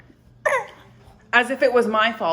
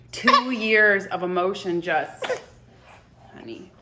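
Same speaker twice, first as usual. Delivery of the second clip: tearful. Real, not acted. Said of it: "I started bawling".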